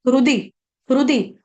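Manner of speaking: हृदि said as "rudi", the h dropped; silent h. Shown as a demonstration. Teacher showing learners the silent letter, हृदि said as "rudi". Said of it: "ह जो है ना ये silent है".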